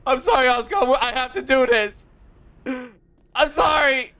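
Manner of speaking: half-joking loud apology to Asuka; loud pleading apology. Real, not acted. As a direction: beg her forgiveness over the game. Apologizing to the game character.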